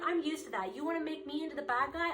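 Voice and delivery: voicing someone standing their ground; defiant retort. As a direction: shrug off the blame, then lift the last words. Acting out listener's defiant reply.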